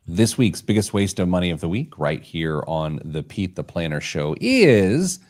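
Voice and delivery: measured build to a lifted "is"; show segment announcer. Acted. Host unveiling the weekly waste of money, announcer style. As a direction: announce it, holding for the reveal. Reads recurring segment intro.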